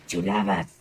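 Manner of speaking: lightly voiced smooth charmer; smug lover voice. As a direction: purr it like a self-styled heartthrob. Boastful mock-suave voice.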